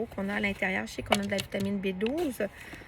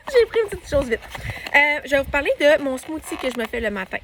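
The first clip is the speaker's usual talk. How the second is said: hiccups mid-sentence; talking through hiccups, a bite just taken; hiccuping while eating; 4 semitones higher, 6 dB louder than usual. Real, not acted. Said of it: "j'ai le hoquette".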